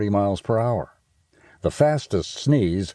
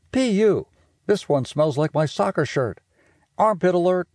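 disgusted; 10 semitones higher than usual. Acted. Reacting to the stinky bottle.

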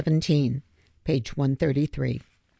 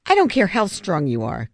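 louder, held-in anger; seething; 5 semitones higher, 4 dB louder than usual. Acted. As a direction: push it through contained fury. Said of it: "Griffin seethed".

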